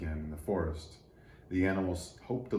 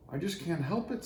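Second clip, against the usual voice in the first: sighing; 8 semitones higher than usual. A narrator's reading. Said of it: "sighed Little Tree".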